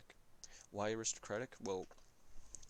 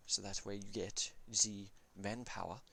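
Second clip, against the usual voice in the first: bad German accent; a clumsy, overdone German accent. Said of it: "this is a very bad German accent".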